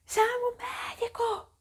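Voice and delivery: very high, drawn-out imitated scream; hammed-up shriek for help, slow and stretched; mock screaming. Woman in labour calling for the doctor, mock scream. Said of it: "eu comecei a gritar".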